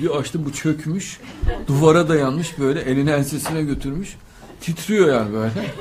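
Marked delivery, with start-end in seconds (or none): 4.6-5.8 laughing as he describes it, then a long high laugh; real amused laughter. Real, not acted. Laughs at the trembling man.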